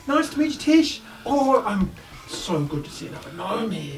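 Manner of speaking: bubbly little gnome introducing himself; chirpy gnome. Acted. Gnome Roosh greets the party eagerly.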